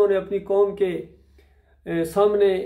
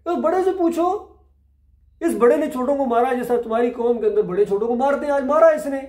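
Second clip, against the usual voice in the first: mocking challenge; 4 semitones higher than usual. Ibrahim mocking his people over the idols, sarcastic and raised. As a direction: needle them with sarcasm, pitch lifted high. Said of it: "Ibrahim अलैहिस्सलाम ने कहा कि".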